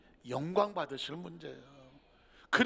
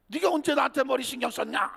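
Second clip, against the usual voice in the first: mild snide retort; 5 semitones higher than usual. Acted. Hurt deaconess snaps back.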